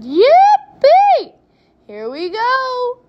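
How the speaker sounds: high, loud whoop drawn out; excited shout. A narrator's reading. Grandpa cheers as the elevator drops, excited shout. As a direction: whoop it out like a thrill-seeker. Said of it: "Grandpa shouted".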